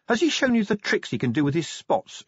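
a hint of mockery; Sally, teasing. A narrator's reading. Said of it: "she said".

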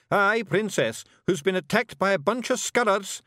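high, loud Scots storytelling; Scottish Feegle, bluffing. A narrator's reading. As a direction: take the prompt and bluster on. Voices Rob improvising.

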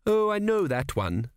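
breezy, dismissive tone. A narrator's reading. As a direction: brush it off lightly. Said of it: "she said dismissively".

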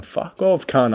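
hammed-up panicked yell; mock yell. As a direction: yell it like you are going under. Retold yell while nearly drowning.

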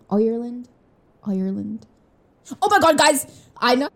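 "Ireland" as "Oyer-land" in an Irish accent. Shown as a demonstration. Rehearsing the word for listeners, Irish accent. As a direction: practise an Irish accent, rounding the first vowel. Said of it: "do my own Irish accent".

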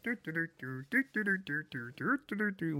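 light, bouncy doo-doo-doo humming; singsong nonsense syllables, jaunty; sung "do-do" ditty. Retold or imitated. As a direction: hum a carefree little walking tune. Hums Mister Bean walking along.

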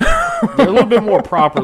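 put-on high, loud posh British accent; laughing through a proper British accent.

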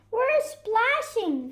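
high, stretched-out gleeful call; excited shout. Acted. Animals in the river call to Fox, excited shout. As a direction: call out high and playfully, drawing it out. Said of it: "they shouted".

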